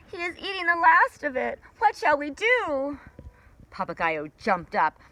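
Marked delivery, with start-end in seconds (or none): 0.1-3.0 frightened creatures. Acted. Creatures lament.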